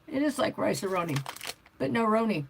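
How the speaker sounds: talking through a mouthful; words round a bite of food; mouth full. Real, not acted. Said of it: "while I have my mouth full".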